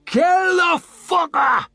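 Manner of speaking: high, loud, slow snarl; bloodthirsty snarl from the crowd. A narrator's reading. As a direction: spit it out with hatred. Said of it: "snarled Whitewater Jin".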